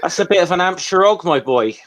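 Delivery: broad Hampshire country twang; lightly exaggerated Hampshire twang; Hampshire accent. Shown as a demonstration. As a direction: put on a rustic Hampshire accent. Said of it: "I don't have to change my voice that much to".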